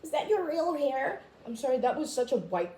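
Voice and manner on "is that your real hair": sassy offended. Retold or imitated. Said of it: "I was just like".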